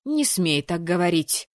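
mother scolding daughter; stern outcry. Acted. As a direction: cut her off sharply. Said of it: "вскричала мама".

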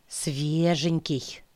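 slow, gleeful muffled exclamation; joyful muffled cry. Acted. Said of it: "Раздался радостный, приглушённый".

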